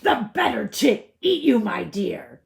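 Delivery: loud, fast pounce; wolf cries out. A narrator's reading. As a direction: lunge at her with the words. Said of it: "cried the wolf".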